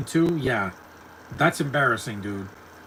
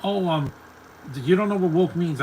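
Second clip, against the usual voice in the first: higher, louder mock objection; mocking imagined critics; 6 semitones higher, 4 dB louder than usual. Imitating listeners who doubt he knows woke, mocking. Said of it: "If you guys are like".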